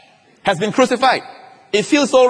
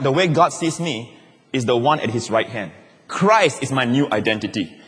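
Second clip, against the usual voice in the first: calm inner confession; 3 semitones lower than usual. Shown as a demonstration. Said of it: "straightway tell yourself".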